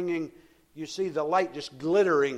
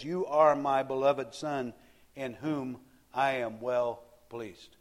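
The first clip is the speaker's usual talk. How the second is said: lightly voiced God, drawn out; God speaking; 2 semitones lower, slower than usual. Preacher voicing God's words over Jesus, slow and solemn.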